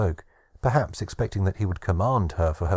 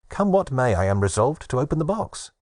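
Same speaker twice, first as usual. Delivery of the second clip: higher, louder, firmly decided; resolute exclamation; 4 semitones higher, 4 dB louder than usual. Acted. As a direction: declare it with sudden resolve. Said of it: "exclaimed Pandora".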